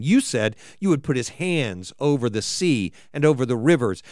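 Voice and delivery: measured, solemn reading of the psalm; scripture reading. Acted. Preacher reading the psalm to the congregation, solemn.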